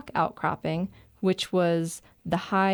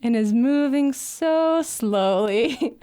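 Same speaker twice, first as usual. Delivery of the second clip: laughing while talking; 5 semitones higher, 4 dB louder, slower than usual. Real, not acted. Laughing while describing bear.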